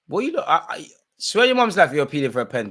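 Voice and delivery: high, loud disbelief at the appeal; incredulous mockery. Real, not acted. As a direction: scoff at the penalty appeal. Mocking Porto player's appeal.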